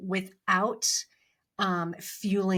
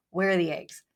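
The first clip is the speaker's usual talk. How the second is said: husband's annoyed question, flat and pointed; mildly irritated, demanding the eggs; perturbed. Retold or imitated. Husband in the kitchen asks for missing eggs, mildly annoyed. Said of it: "a little bit perturbed".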